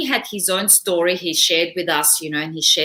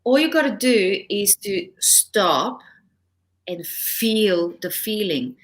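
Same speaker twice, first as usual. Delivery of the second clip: slow, calm mentor's advice; slower than usual. Retold or imitated. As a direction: ease the words out slowly, like wise counsel. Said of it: "he said".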